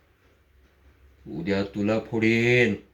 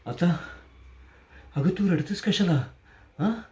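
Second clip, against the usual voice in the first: much higher, sing-song taunt; mock disbelief; 7 semitones higher than usual. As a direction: scoff at her tears, high and mocking. Taunts crying woman. (रडण्यावर उपहास)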